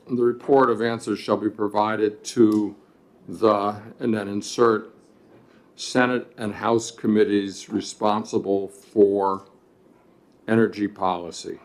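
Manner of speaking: dictating. Shown as a demonstration. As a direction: spell out the amendment wording. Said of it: "so line fourteen would read".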